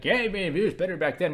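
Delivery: a hint of a complaining old man; mock old man. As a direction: play a nostalgic old-timer for a laugh. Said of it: "I'm gonna sound like an old man".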